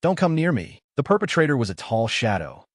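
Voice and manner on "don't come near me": high frightened cry; terrified plea. Acted. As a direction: beg him to stay back. Victim facing killer.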